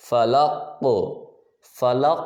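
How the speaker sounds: فلق ending in a bouncing, echoed ق; qalqala echo. Shown as a demonstration. Teacher demonstrating qalqala on the final qaf. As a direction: let the ق in فلق bounce twice. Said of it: "جس طرح میں ابھی پڑھوں گا".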